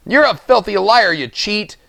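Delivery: put-on high, loud furious holler from a rickety old man. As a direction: yell at the cheating miller. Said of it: "old Rupert hollered".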